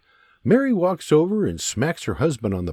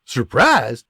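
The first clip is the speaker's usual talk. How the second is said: blurted; 4 dB louder than usual. Acted. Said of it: "His father blurts".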